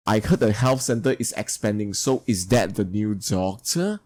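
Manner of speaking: "doctor" goes up at the end; yes-no question, lifting the pitch on "doctor"; rising question tune. Shown as a demonstration. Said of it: "So rising, going up sound".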